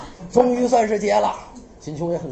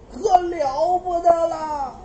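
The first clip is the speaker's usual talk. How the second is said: lady's slow lament; 5 semitones higher, slower than usual. Acted. Princess speaks slowly, dramatically.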